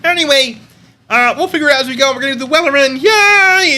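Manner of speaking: high, hurried puppet frog, cheering at the end; Kermit. Pretend. Kermit announcing the Wellerman to viewers, high puppet cheer. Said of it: "It's Kermit".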